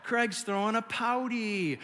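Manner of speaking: drawn-out mock-pitying taunt; snarky dad. Dad mocking his pouting kid, snarky. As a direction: tease a sulking child with slow, snarky words. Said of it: "get super snarky with us".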